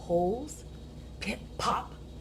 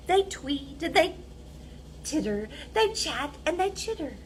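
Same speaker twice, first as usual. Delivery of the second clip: quick chatter; 6 semitones higher, 4 dB quieter than usual. A narrator's reading. Chattering animals.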